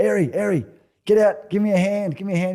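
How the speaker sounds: retold shout for help, high and loud; imitating a yell for help. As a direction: call out desperately to a teammate, replaying it. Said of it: "I'm yelling out to Jace".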